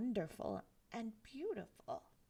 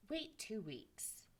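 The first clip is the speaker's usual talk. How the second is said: hushed warning; 5 dB quieter than usual. Acted.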